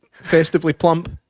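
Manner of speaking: slow, deliberate mock-polite; drawn-out tongue-in-cheek understatement; arch euphemism. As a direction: savour the polite word.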